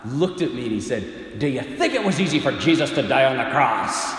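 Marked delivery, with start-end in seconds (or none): 1.4-4.1 Irish priest's indignant rebuke; mock Irish confessor laying on guilt; Irish accent. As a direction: scold him in a put-on Irish brogue. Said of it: "gonna do my best Irish impersonation".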